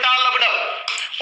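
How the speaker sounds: टा लब डब stretched out slowly, beat by beat; slow heartbeat rhythm. Shown as a demonstration. Teacher drills students on the S4 sound, slowly beat by beat. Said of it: "उल्टा कर दो".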